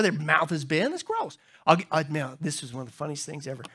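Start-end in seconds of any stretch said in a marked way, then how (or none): 0.9-1.4 mock disgust.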